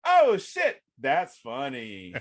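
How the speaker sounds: yelp, then drawl the punchline slowly; surprised reader. Retold or imitated.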